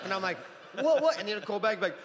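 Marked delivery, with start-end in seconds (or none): 0.8-1.2 surprised. Retold or imitated. Confused reply to the caller.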